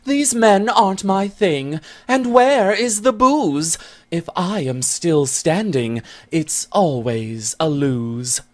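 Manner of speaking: high, quick little voice of a shy friend; shy Irish friend. Acted. Shy Bennet answering the angry Scot: high, quick character voice. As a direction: answer in a high, hurried girlish voice. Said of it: "The shy Irish Bennet so swiftly replies".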